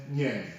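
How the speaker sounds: "nyen" detto piano, un-yun; right onion. Shown as a demonstration. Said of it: "it should be pronounced as".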